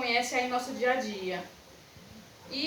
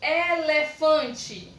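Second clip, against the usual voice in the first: ELEFANTE slow, higher and joined up; deliberate whole word; 4 semitones higher, 4 dB louder, much slower than usual. Shown as a demonstration. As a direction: announce ELEFANTE carefully as one word. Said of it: "dividida as sílabas em quatro".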